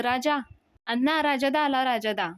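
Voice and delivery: excited call. Retold or imitated. Sambhya telling Anna that Raja has come, excited. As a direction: call everyone's attention eagerly. Sambhya calling out Raja's arrival.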